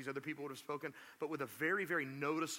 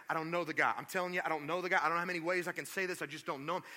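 fast, louder rushed protest; insistent rambling denial; 2 semitones higher, 4 dB louder, much faster than usual. Retold or imitated. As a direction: pile words on to convince them. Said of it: "He went".

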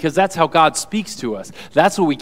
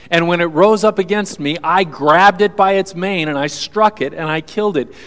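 louder, higher defiant declaration; bold David boast; 3 semitones higher, 6 dB louder than usual. Acted. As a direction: proclaim it like a fearless young warrior. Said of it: "this is what David says".

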